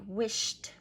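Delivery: "wished" as one syllable ending in t; wished with T sound. Shown as a demonstration. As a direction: say "wished" as wisht. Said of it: "add a T sound to the end".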